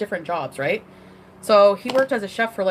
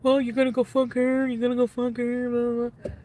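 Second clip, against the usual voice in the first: retold jealous anger; 3 semitones higher than usual. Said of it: "she was really angry".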